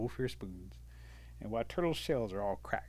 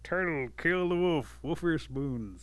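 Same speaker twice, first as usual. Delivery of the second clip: louder, higher, drawn-out proud proclamation; boastful turtle; 5 semitones higher, 4 dB louder than usual. Acted. Turtle showing off wolf ear spoons to villagers, boastful. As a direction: crow it like a champion, mildly hammed-up.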